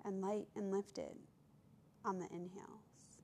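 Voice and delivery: calm meditation voice with long pauses; guided meditation. Acted. Yoga teacher leading listeners to observe their breath, guided meditation. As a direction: guide them gently, leaving space between phrases.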